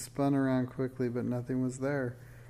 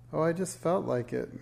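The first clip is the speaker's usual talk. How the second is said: forced casual; 4 semitones higher than usual. Acted. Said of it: "Minx tried to sound casual".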